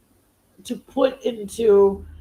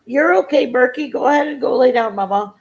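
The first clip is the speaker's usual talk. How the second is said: pet talk; 4 semitones higher, 6 dB louder, faster than usual. Real, not acted. Talking to her pet or child.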